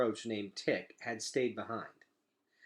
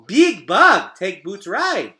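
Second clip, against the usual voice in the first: much higher and louder, then slower on the plea; toddler begging; 8 semitones higher, 16 dB louder, much slower than usual. Acted. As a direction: coax the big bug like a toddler. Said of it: "she said".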